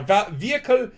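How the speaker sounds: hammed-up Quebec French accent; angry Quebecois French accent. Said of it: "angry accent".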